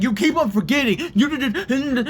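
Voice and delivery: high-pitched mock nagging; mocking imitation. Mocking sister's nagging in retelling.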